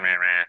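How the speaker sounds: loud nonsense scolding noise; mock her grumbling with wordless rah-rahs; imitated wordless telling-off; imitated chiding.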